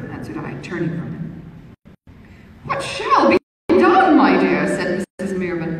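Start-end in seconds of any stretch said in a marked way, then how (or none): 2.7-4.7 slow, higher, louder puzzled question; bewildered matron. A narrator's reading. Missus Mirvan puzzled at the young lady, higher. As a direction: ask in kindly bewilderment.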